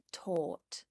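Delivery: taught with a hard crisp T; strong T. Shown as a demonstration. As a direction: hit the T in taught firmly. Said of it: "It's a strong T sound".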